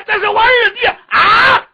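high, loud, proud-to-tell call; loud announcement. Acted. Nephew introduces his younger brother to old uncle, loud announcement.

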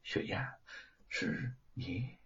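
softly, in quiet disbelief; hushed, barely voiced question; soft surprised. A narrator's reading. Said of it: "轻声地说". (轻声惊讶地问)

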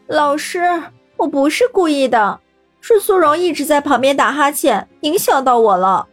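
high, loud whining plea; whining complaint. A narrator's reading. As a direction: wail your innocence to teacher. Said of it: "叫苦连天".

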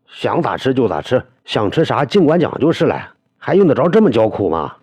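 jolly a crying friend out of tears; hurried coaxing, forcing a cheerful tone. A narrator's reading. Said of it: "杨行赶忙笑道".

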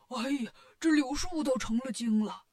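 startled yelp in a put-on pig-demon voice; hammed-up astonished exclamation; Bajie exclaiming. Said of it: "八戒嚷嚷着说".

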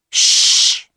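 sharp unvoiced shush; hushing. Boy hushing his friend in the graveyard, sharp shush. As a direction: hush him at once.

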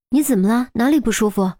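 concerned questions, a touch of alarm; worried nurse. Acted. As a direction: ask quickly, suddenly tense. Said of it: "护士顿时紧张起来".

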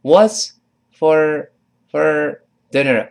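high, loud, slow "What's for, for dinner"; exaggerated slow breakdown. Shown as a demonstration. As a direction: pull "for" apart to show the weak form. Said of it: "不是for了". (拆开夸张慢读)

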